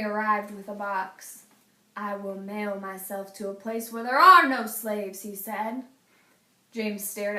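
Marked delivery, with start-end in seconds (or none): 2.0-5.2 a hint of a determined man; lightly voiced, resolved; Henry's voice. Henry telling James his plan, lightly voiced.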